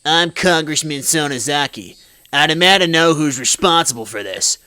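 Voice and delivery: lightly voiced mob boss, demanding; a hint of an imperious gangster boss; deliberate, commanding boss voice. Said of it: "It's my mob boss voice".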